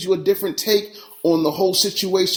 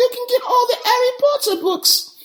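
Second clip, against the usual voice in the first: clumsy, bad London accent, very high in pitch. Telling listeners which books to get, in a bad london accent. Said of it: "that was my bad London accent".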